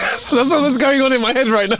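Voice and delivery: high, giggling through the words; giggly confession; laughing. Real, not acted. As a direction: talk through real laughter. Laughing while telling.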